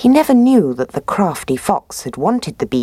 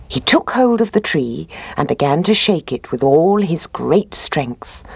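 plain reading voice

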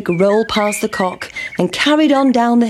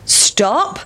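raised call; farmer calling; 7 semitones higher than usual. A narrator's reading. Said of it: "said the farmer".

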